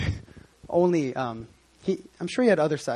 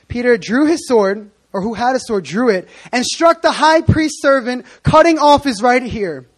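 dramatic retelling; 5 semitones higher, 7 dB louder than usual. Acted. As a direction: lean into each word dramatically.

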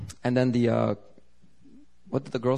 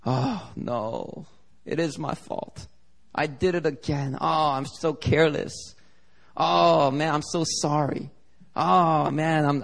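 mock remorse with drawn-out sighing words; ashamed self-blame; slower than usual. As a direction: act out beating yourself up, slightly hammed-up. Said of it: "We just fill ourselves with shame".

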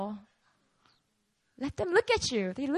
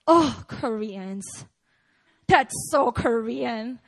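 slow, lower, scornful drawl; mock disdain; 3 semitones lower, much slower than usual. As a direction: sneer it out slowly. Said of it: "when you talk like that".

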